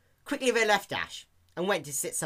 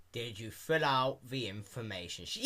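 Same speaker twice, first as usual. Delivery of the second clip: bored clerk; 3 semitones lower, 5 dB quieter than usual. Acted.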